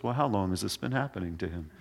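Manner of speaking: soft, quick, unbothered doctor's question; calm question. Retold or imitated. Jesus calmly asks the father how long, soft and calm. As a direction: ask it like a doctor who has seen it all. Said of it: "Just really calm".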